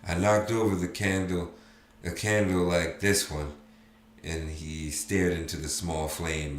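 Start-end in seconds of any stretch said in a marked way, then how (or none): 0.1-3.5 tearful. Acted. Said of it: "jagged lines of tears inched down his face".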